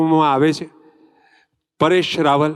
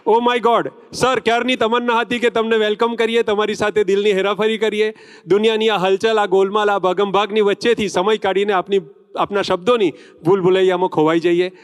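higher-pitched, rolling announcer delivery; stage tribute; 3 semitones higher than usual. Acted. Host hailing the actor with his film titles, declaimed tribute. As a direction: declaim it as a showy welcome.

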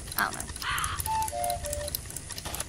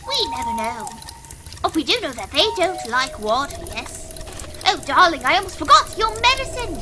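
put-on very old man. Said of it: "So with that voice done, I forgot how hard it is on my voice".

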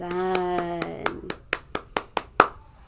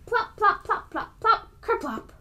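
playful sound effects; 12 semitones higher than usual. Acted. Sound words of falling apples.

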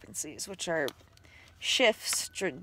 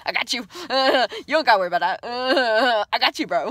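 laughing; 5 semitones higher, 10 dB louder, much faster than usual. Pretend. Voicing a protector part, laughing.

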